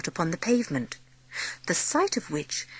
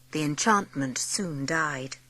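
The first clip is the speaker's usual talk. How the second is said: hushed narration; 4 semitones lower, 7 dB quieter, slower than usual. A narrator's reading. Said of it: "when Sarah was alone".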